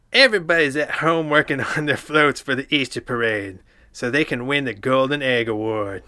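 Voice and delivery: lightly Cartman-style SpongeBob narration; a hint of Cartman reading the story. Reading the SpongeBob story in a light Cartman voice. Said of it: "it sounded like Cartman from South Park".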